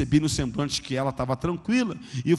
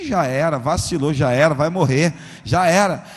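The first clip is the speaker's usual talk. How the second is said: loud blunt dismissal; already lost; 7 dB louder than usual. Retold or imitated. Preacher retelling his own verdict, loud and blunt. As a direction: say it like the boy is a goner. Hearing the son's fate.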